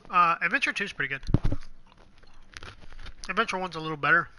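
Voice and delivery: talking while crunching cheese wontons; words round a crunchy mouthful. Real, not acted. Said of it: "I'm sorry if I'm crunching this really loud".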